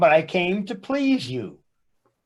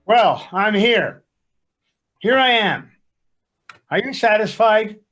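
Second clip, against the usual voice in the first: grudging; 3 semitones higher, 4 dB louder than usual. Acted. Husband dragged to counseling tells his wife he came, irritated. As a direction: announce yourself with testy impatience.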